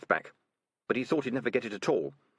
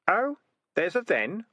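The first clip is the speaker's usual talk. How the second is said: calm; 11 semitones higher, 4 dB louder, slower than usual. A narrator's reading. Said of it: "said Keith calmly".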